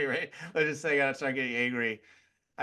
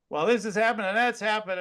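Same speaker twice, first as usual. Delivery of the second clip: higher-pitched mock complaining; mock political rant; 4 semitones higher, faster than usual. Man voicing people's political worries, mock rant. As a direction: play along with someone's rant.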